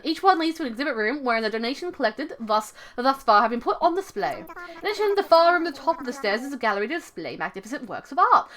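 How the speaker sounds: lilting British owl voice; lightly hammed-up British tour guide; British accent. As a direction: lecture like a British museum owl. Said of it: "give him some kind of British accent".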